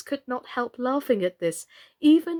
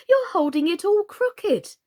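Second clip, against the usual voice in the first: cry out; 9 semitones higher, 5 dB louder than usual. Acted. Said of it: "cried Alice".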